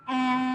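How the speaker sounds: Ams blended again, held sounds; blended slowly. Shown as a demonstration. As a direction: draw out Ams for the class. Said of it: "One more time".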